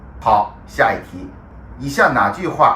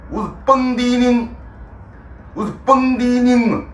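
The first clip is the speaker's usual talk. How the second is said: proud local; 10 semitones higher than usual. Acted. Proud claim in a raised voice.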